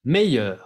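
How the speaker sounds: Meilleur with a throaty R at the end; French R. Shown as a demonstration. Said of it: "La R se pronuncia meilleur".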